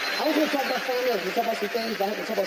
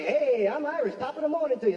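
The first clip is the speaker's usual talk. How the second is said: mock Irish; 5 semitones higher than usual. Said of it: "and say".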